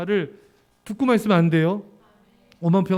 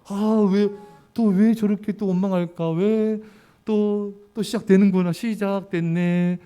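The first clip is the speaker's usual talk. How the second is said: annoyed grumble; slower than usual. Retold or imitated. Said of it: "뭐 이렇게 그 사람 그렇게 느껴지지?".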